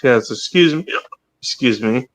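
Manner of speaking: talking through hiccups; hiccuping between words. Real, not acted. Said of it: "There's some hiccuping".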